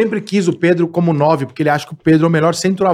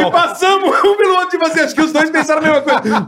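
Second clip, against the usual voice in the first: laughing; 8 semitones higher than usual. Real, not acted. Laughing while retelling meeting.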